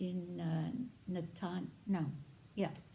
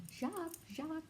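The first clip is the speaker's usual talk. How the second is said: calling out; 10 semitones higher, 5 dB quieter, faster than usual. Retold or imitated. Sister calls out brother's name.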